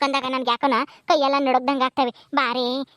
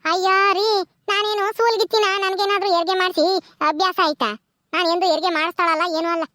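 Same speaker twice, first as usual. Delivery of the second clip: higher, brisk village woman brushing off worry; 5 semitones higher than usual. Acted. Gauri telling her worried husband not to fuss, lively. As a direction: shrug off his panic, lively and sure.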